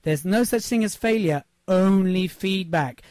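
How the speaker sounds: slow it down so it sinks in; slow, deliberate repeat. Shown as a demonstration. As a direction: repeat it slowly, leaning on only feedback. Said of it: "I'll repeat that".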